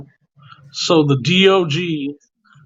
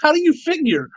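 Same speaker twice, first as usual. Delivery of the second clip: baffled whisper; 9 semitones higher than usual. Retold or imitated. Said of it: "And you're like".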